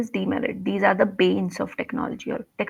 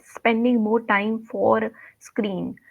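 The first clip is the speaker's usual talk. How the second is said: quoting the mistake; 2 semitones higher, 4 dB louder, much slower than usual. Retold or imitated. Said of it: "one was, you said".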